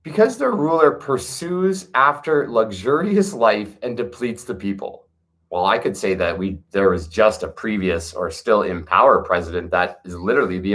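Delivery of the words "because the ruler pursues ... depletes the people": slow, measured reading of ancient verse; scripture reading. Acted. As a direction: read each line like sacred text, with pauses. Rereads the verse.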